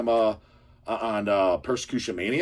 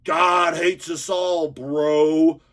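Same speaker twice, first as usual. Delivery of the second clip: higher, very slow, drawn-out poser voice; mock poser drawl; 3 semitones higher, 3 dB louder, much slower than usual. Imitates the poser answering.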